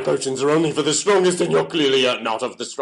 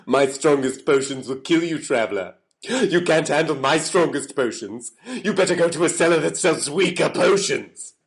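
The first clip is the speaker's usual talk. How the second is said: raised, emphatic theatrical voice; vehement refusal; 3 semitones higher, 3 dB louder than usual. Acted. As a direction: warn the traveler off forcefully. Potion seller refuses customer vehemently.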